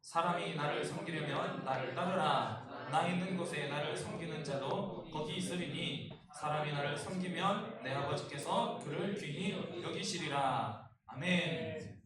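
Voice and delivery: measured, solemn Bible reading; scripture reading. Acted. Pastor reading scripture to the congregation, solemn. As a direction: read the verses aloud to the congregation.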